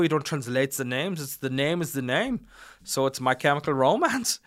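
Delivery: mock German-accented explaining. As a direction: play the German insisting on his point. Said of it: "And he goes".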